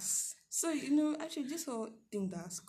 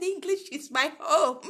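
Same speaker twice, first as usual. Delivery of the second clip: retold reply; 6 semitones higher, 10 dB louder, slower than usual. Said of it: "I said".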